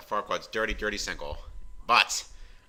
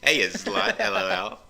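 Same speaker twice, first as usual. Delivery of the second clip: higher, louder, sassy voice; character voice; 10 semitones higher, 4 dB louder than usual. Acted. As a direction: redo it in the character's voice. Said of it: "used the wrong voice there".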